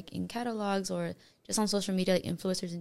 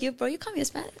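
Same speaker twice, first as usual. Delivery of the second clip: mock-offended protest, pitched up high; 7 semitones higher, faster than usual. Friend reacting to being called Hispanic, mock offended. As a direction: play up being insulted, higher voice.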